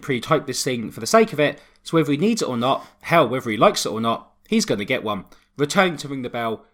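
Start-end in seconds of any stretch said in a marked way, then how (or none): 5.6-6.7 building up to a shouted name; announcer intro. Acted. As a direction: hype the entrance and yell the name. Introducing co-host like ring entrance.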